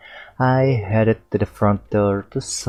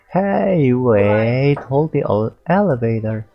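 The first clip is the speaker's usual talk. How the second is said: calling out; 3 semitones higher, 3 dB louder than usual. Acted. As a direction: shout down the hallway to hold it. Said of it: "I heard a voice call out".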